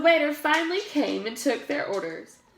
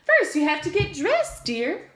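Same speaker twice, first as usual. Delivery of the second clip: mother voice; 6 semitones higher, 3 dB louder than usual. Acted.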